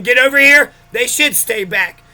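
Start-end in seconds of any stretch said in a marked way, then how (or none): 0.0-0.7 louder barked call to the dogs; angry command. Shown as a demonstration. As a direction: call the dogs like you're pissed off. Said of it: "If I'm pissed off and I'm saying".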